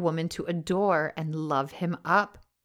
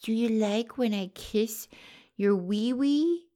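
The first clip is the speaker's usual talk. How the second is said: put-on baby talk; 4 semitones higher, slower than usual. Cooing to boyfriend.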